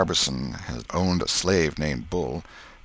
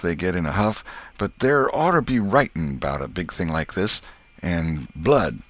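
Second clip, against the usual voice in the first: lightly voiced rustic boy laying down rules; Huck's emphatic voice; 2 semitones higher, 3 dB louder than usual. Huck says big oaths need writing, emphatic. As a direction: explain it firmly as a country lad. Huck rejects plain handshake.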